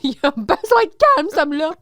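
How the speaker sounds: high, loud yell with laughter; mock outburst. Co-host echoing the boss who needs calm, mock shouting. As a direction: shout it in parody, half laughing.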